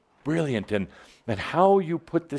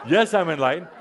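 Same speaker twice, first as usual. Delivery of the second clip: with a smile and a laugh; 5 semitones higher, 4 dB louder, faster than usual. Shown as a demonstration. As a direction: say it smiling, half laughing. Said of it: "you say it with a smile and a laugh".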